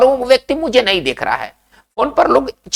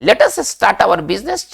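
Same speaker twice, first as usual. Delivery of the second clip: each English word spaced out very slowly; slow dictation; much slower than usual. Shown as a demonstration. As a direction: spell it out slowly for the class to repeat. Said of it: "अंग्रेजी में कैसे कहा जाएगा".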